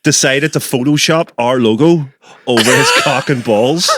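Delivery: slow words broken by laughter; real laughter spilling into speech; laughing while talking. Real, not acted. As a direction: try to get the story out through giggles. Laughing through telling the photo.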